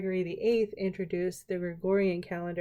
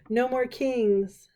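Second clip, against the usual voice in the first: higher, slow slogan; mock proclamation; 4 semitones higher, much slower than usual. French revolutionaries declaring an end to kings, mock proclamation.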